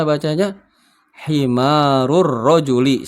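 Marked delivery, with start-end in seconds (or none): 1.3-3.1 Himarur rojuli said slow and clear; slow model reading. Shown as a demonstration. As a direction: read Himarur rojuli slowly for pupils to repeat. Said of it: "Silahkan diikuti". (bacaan lambat untuk ditirukan)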